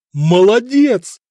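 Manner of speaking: slow, loud, delighted praise; hearty approving exclamation; admiring. A narrator's reading. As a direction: savour the word with admiration. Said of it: "восхитился Виттерих".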